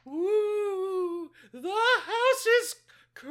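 high, loud ghostly wail; spooky voice. Acted. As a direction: wail it like a hammed-up ghost scaring someone. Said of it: "do a spooky voice at Elena".

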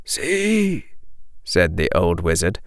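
put-on gentle, hushed old wizard. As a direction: comfort the boy softly. Old wizard consoles Harry.

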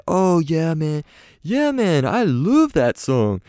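high British voice; fond of the song, up high; impression of a singer. The singer answers a guitarist.

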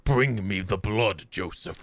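low, slow monster whisper; hungry beast growling for blood; hoarse starving cold whisper. Pretend. Monster voice continues.

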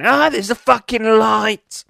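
high, slow squeaky moth excitedly spotting a light. Retold or imitated. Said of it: "start going".

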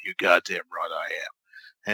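slow, whispery TV antihero impression; whispered drug-kingpin impression, drawn out; Walter White. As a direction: rasp it out slowly, nearly all breath. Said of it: "In the voice of Walter White".

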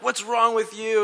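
high, loud, slow retold yell; hammed-up upset shout. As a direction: act out an exasperated scolding. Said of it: "I'm yelling and I'm upset".

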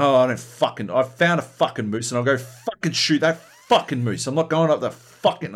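mock grumpy gamer rant; imitated pissed-off refusal.

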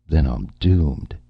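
slow, mild moan of despair. Acted. Martin moaning to his agent that he is doomed. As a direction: drag it out like a man already lost. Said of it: "Martin moaned".

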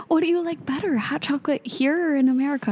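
put-on high Italian-accented question; Italian lady again. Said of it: "And she's like".

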